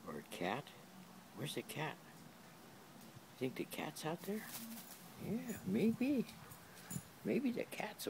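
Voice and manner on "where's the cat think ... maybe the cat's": sing-song dog talk. Real, not acted. Talking to dog in baby voice.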